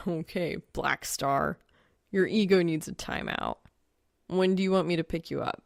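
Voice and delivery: a hint of a dry guy's voice; lightly voiced young man. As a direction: answer her dry and unbothered. Narrator voices Soul again.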